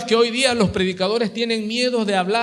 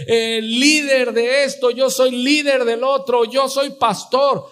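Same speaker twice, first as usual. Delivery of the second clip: boastful claims; 6 semitones higher than usual. Acted. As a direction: rattle off titles in a mock boast, pitched up. Mimics boasting church members. (imitando presunción, en tono alto)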